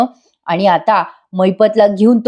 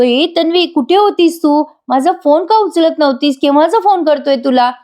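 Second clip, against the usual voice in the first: anxious demand; 7 semitones higher than usual. Retold or imitated. Ashwin demands where Tanvi was.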